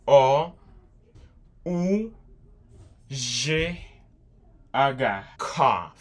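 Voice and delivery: C O U G H spelled letter by letter, each spaced out; spelling out letters. Shown as a demonstration. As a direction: spell cough slowly for the class. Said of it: "Assim que você escreve". (soletrando cough devagar)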